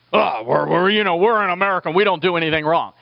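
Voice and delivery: quick, brash mock boast; smug patriot. Pastor mocking complacent patriots to his congregation, smug and brisk. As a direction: lampoon the proud patriot who thinks he is blameless.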